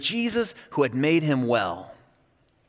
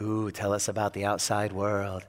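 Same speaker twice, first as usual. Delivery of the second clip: eager students; 10 semitones lower, 8 dB quieter than usual. Retold or imitated. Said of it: "we all leaned in and we're like".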